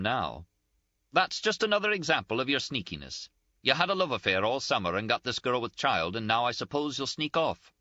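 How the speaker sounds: high-pitched, indignant, close to tears; Ferguson's scolding. A narrator's reading. Ferguson voiced, accusing Henry.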